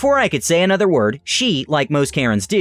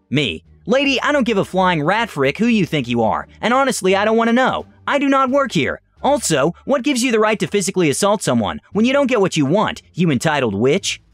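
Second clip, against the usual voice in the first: retold yelling; 5 semitones higher than usual. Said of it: "yelled back".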